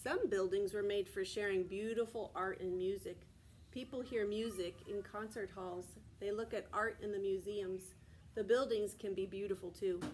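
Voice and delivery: steady read-aloud from the book; reading to children. Acted. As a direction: read the page aloud to the class. Reads picture book to class.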